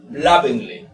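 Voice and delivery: lovingly with the first syllable strongest; lovingly, front-stressed model. Shown as a demonstration. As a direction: hit the start of lovingly, let it fall. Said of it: "mayor fuerza de voz está en love".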